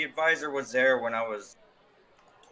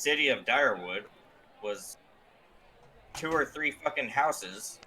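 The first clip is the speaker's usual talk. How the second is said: sarcastic air quotes. Acted. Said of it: "I would use air quotes".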